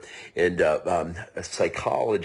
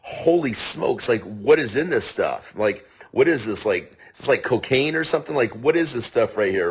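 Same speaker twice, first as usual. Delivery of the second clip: amazed; 3 semitones higher than usual. Retold or imitated. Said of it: "psychologists are like".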